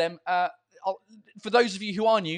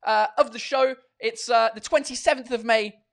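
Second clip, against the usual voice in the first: show host opening; 5 semitones higher, 6 dB louder than usual. Acted. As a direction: greet the crowd like a live-show host. Opening his live show.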